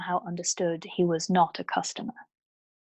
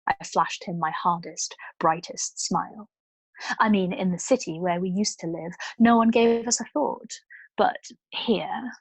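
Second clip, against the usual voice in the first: vulgar self-confidence. Acted. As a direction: cover fear with bright, pushy chatter. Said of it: "took on a ring of vulgar self-confidence".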